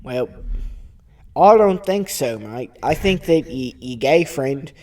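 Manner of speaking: lightly put-on Australian accent; tolerant Australian. Australian character defends his tolerance to co-hosts, mildly upset Australian accent. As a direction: protest in a mild Australian voice. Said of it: "Australian and everything".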